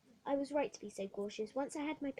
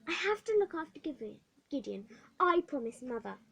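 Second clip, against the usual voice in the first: put-on girl insisting to the matron; insistent girl; 3 semitones higher, 6 dB louder than usual. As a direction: insist on your promise.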